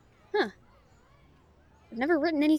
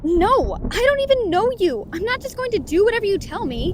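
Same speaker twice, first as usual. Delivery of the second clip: loud, higher, defiant shout; shouted refusal; 7 semitones higher, 5 dB louder than usual. Acted. Author shouting back at the stranger, defiant.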